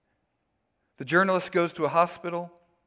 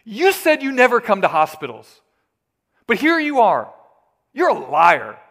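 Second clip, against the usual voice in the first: loud, accusing shout; raspy shout; 4 semitones higher, 8 dB louder than usual. Acted. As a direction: yell it at the doctor who lied. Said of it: "the journalist shouts in this raspy voice".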